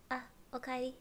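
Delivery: lightly voiced Japanese welcome-home greeting; cute character greeting. Streamer shows what fits their character, lightly acted. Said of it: "my character is more like".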